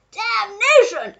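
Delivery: slow, high, loud curse; duke shouting. A narrator's reading. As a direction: explode in frustration, drawing the word out. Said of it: "shouted the Duke".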